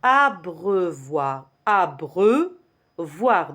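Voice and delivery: ABREUVOIR slowly drawn out, abreu-voir; teacher sounding out abreuvoir for repetition; syllable by syllable. Shown as a demonstration. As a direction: stretch each part of abreuvoir. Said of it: "Répétez".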